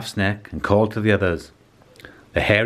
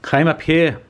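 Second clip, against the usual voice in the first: higher, called out from up in the trees; calling monkey; 8 semitones higher than usual. A narrator's reading. Monkey calling the animals up into the trees, called out. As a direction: call down to the animals below. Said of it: "called the monkey from the treetops".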